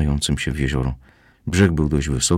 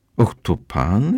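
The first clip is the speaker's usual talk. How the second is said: taken aback, surprised, pitched-up voice; 6 semitones higher than usual. Leaving the club, a young woman runs into the narrator: surprised. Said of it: "Zdziwiła się".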